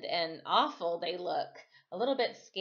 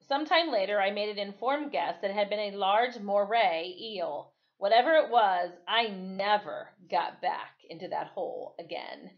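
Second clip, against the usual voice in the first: steady read-aloud narration; measured story reading for children; 4 dB louder than usual. A narrator's reading. Reads a passage aloud.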